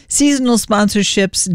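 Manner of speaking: throat rough from a cough; speaking through a nagging cough; hoarse from coughing. Real, not acted. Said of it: "I am coughing".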